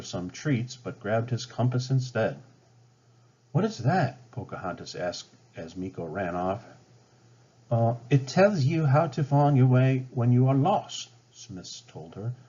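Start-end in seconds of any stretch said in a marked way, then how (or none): 3.5-4.3 curious Pocahontas. Acted. Pocahontas curious about compass. 7.7-11.1 explaining Smith. Acted.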